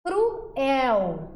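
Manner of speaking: "Cruel" in two clear syllables, cru-EL; hiato pronunciado. Shown as a demonstration. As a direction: say "Cruel" with full U and full E. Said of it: "mesma coisa". ("Cruel" com as duas vogais separadas)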